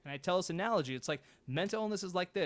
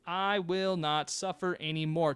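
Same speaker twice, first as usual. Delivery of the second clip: slower, each word of "I will not suffer anymore" spaced out; slower vow; slower than usual. Shown as a demonstration. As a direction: repeat the vow slowly, letting it sink in. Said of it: "start right now by making a decision".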